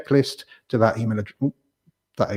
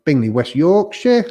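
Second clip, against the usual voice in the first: slow put-on West Yorkshire accent, a bit higher; northern accent; 5 semitones higher, 4 dB louder, slower than usual. Shown as a demonstration. Host jokingly reading a viewer's town in northern accent. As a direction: drawl it like a Yorkshireman. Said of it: "that's why I use my, um, my northern accent".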